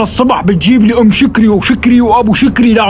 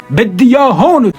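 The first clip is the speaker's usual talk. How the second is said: loud furious order; angry command; 3 semitones higher, 8 dB louder than usual. Acted. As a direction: demand it with fury. Boss orders culprit brought.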